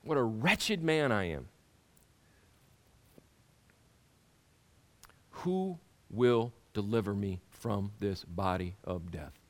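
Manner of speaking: slow, solemn reading of Paul; scripture reading. Acted. Preacher reading Paul's lament to the congregation, solemn. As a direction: lay out the lament gravely, then lift to thanks.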